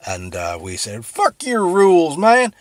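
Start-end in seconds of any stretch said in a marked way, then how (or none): 1.1-2.5 defiant shout. Acted. Colonists yelling at the British, defiant shout. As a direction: yell it high and loud like a rebel.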